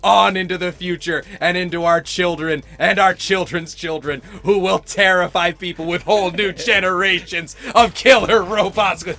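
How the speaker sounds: hammed-up candidate promise; lightly voiced politician, laughing through; mock campaign pledge. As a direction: sell it like a stump speech. Continues mock presidential pitch.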